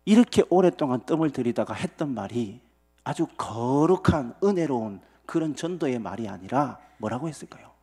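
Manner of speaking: ordinary talk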